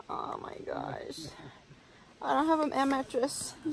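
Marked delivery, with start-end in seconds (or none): 0.1-1.3 slow hopeless whisper; exhausted whispered despair. Real, not acted. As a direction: let it out as a tired whisper. Despair at mattress not inflating.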